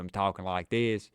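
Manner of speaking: thick Southern drawl, exaggerated; played-up Southern accent. Teasing people in Colorado, played-up thick Southern accent. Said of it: "I played it up".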